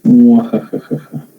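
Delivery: sly villain with slow evil laugh; mustache twirling villain. Pretend. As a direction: scheme it like a cartoon baddie. Sneaky plan on circuit, evil laugh.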